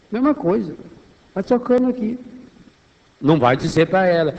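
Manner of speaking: ordinary talk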